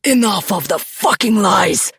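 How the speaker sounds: loud, furious snarl. A narrator's reading. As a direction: snarl it with rage. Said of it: "He snarls".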